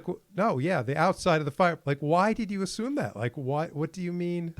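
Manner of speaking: high, loud incredulous protest; incredulous and a bit indignant; exasperated disbelief. Retold or imitated. Exasperated retelling of clerk.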